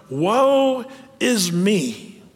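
very slow mock lament; drawn-out lament. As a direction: stretch it into a very slow, mournful woe. Quoting the prophet's lament.

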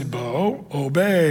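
put-on a calm, firm word to a little boy; firm command to a toddler. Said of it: "you just have to say".

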